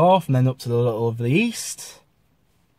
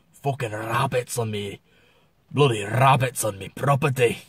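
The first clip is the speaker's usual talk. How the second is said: northern English accent; 4 semitones lower, 4 dB quieter than usual. Shown as a demonstration. Vlogger grumbling about rabbits, northern English accent. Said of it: "It's the northern expression".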